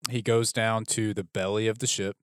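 drawn out, leaning on goes; slow it down to make the point; slow emphatic retelling. Shown as a demonstration. Host repeating a line slowly to show a device, leaning on goes. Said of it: "See what I'm doing there?".

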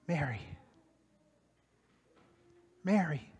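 soft, hushed calling of her name; tender quiet call. Acted. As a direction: say her name gently, twice, barely above a breath. Jesus calls Mary by name.

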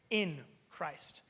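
"in" stressed, then Christ; weight on "in". Shown as a demonstration. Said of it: "The reason I emphasize it".

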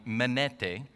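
Greek word in an Italian-sounding accent; bad Italian accent. Real, not acted. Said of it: "sound like ... bad Italian accent".

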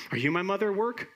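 high-pitched, searching bird voice; little bird. Acted. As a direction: climb high on the question like a lost chick. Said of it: "this little bird who falls out".

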